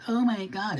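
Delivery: high, mocking gasp of a shocked woman; high mock-horrified viewer; mock outraged woman. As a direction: lampoon a prissy viewer's shock. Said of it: "was like".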